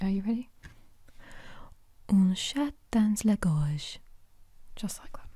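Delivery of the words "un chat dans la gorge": whispered "Un chat dans la gorge" in a French accent; French pronunciation. Shown as a demonstration. Host shows viewers the French phrase, whispered in French. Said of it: "this is how they say it".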